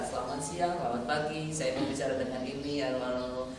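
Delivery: level caller voice with no rise; flat tone. Shown as a demonstration. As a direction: read it out evenly like a routine call. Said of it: "Datar, nada saya datar". (nada datar tanpa naik turun)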